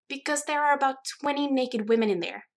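high, loud indignation; scandalized. A narrator's reading. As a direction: explain the obvious, utterly scandalized.

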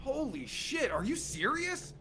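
high, hushed gasp of disbelief; genuinely thrown, voice jumps up; shocked disbelief. Real, not acted. Host shocked by guest's reply.

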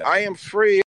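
high mocking shout of I am free. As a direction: squeal it out, high and loud. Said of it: "They run around with chains screaming".

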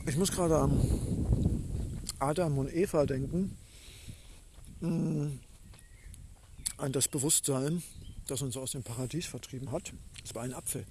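talking through a mouthful of apple; words round a bite of apple; chewing while talking. Real, not acted. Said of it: "Ich esse gerade einen Apfel".

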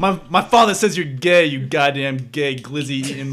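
angry New Yorker. Retold or imitated. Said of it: "some New Yorkers is getting very angry".

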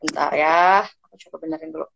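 glitchy dropping audio; words breaking up online; buffering stutter. Real, not acted. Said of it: "suaranya putus-putus". (suara terputus-putus)

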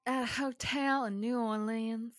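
a hint of Southern Belle, stretching the words; Southern Belle accent. Reading a hotel ghost story aloud in a light Southern Belle accent. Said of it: "I'm doing this one in an accent".

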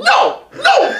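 very high squealed no no; mock no no. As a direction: squeal the catchphrase. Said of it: "the whole "no, no" thing".

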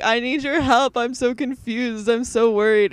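mildly imitated anxious plea for help; paranoid worry. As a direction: act out a mild, mounting worry. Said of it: "genuinely, like, getting really paranoid".

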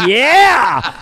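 loud, high, drawn-out yeah; hammed-up cry of delight; mock elation. Reader cheering what reinforces his opinion, mock elation. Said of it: "reinforces my opinion. It's like".

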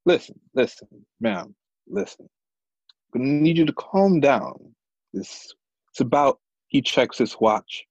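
lightly played official calming someone down; firm, measured placating; patient authority, a touch patronizing; character voice. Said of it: "Fucking character voice and everything".

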